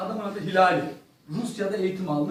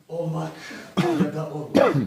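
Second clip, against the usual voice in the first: mock Hamlet; 4 semitones lower than usual. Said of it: "Böyle yaptım".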